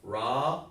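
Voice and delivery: "Raka" split into two long syllables, ra rising, then ka; teacher's model "Raka", syllables held apart; sounded out. Shown as a demonstration. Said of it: "Listen how I'm sounding it".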